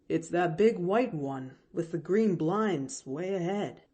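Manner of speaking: put-on plain-spoken servant girl setting things straight; hired girl Nancy. Hired girl correcting Pollyanna, lightly voiced servant.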